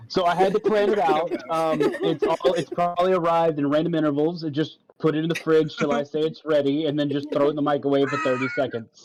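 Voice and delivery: a light robotic monotone; stiff robot voice. Acted. In-character robot explaining.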